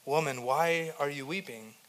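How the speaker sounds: soft, tender question, falling at the end; endearing. Acted. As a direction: ask it softly, as an endearment. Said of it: "it was a term of endearment".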